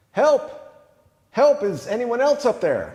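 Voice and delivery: punchline yell breaking into a laugh; yelling back. Acted. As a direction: bellow it up for anyone but God. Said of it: "Jack yelled back".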